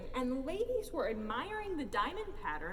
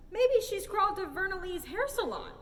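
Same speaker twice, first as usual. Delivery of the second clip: lady voice; 7 semitones higher, 5 dB louder than usual. A narrator's reading. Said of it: "said Odette".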